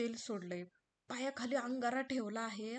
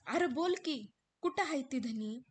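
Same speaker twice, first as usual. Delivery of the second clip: raised, urgent demand; impatient worried wife; 3 semitones higher, 6 dB louder than usual. Acted. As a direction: make him speak. हिरा उत्तर मागते. (अस्वस्थ हिरा, उत्तर मागणारी)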